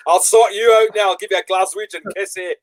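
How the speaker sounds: playful, hammed-up Scottish menace; mock Scottish accent. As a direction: put on a Scottish brawler's accent for a laugh. Mock Scottish hard man threatening.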